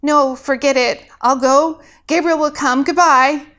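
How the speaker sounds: quick flustered goodbye; hurried goodbye. Acted. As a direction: bolt out of there. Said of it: "Alex said quickly".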